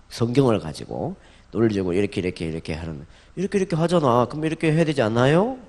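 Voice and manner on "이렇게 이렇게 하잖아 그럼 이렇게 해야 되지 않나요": questioning tone. Shown as a demonstration. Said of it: "질문식으로 하면 좋아요".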